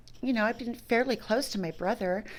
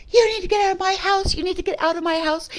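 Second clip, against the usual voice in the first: much higher, louder furious shout, speeding up; exploding yell; 10 semitones higher, 6 dB louder than usual. Retold or imitated. Brother exploding and throwing his sister out of the house, furious shout. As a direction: blow up and throw her out. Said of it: "like, it exploded".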